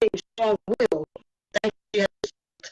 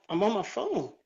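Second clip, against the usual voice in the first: choppy robot voice from bad phone line; 4 dB quieter than usual. Real, not acted. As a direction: sound like a glitching phone. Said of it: "and you sound like a robot".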